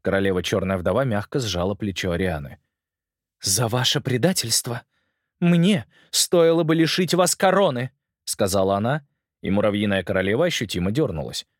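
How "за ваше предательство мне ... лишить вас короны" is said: lightly voiced stern queen; a hint of a cold, stern queen. Queen's lines in story.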